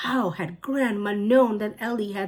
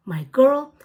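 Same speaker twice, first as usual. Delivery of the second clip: louder, high stern scold; raised stern grandma; 7 semitones higher, 9 dB louder than usual. A narrator's reading. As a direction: come down hard on her. Grandma scolding the rude child.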